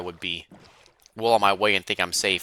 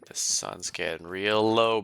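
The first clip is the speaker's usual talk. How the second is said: whispering; slower than usual. Pretend. Whispered aside to character.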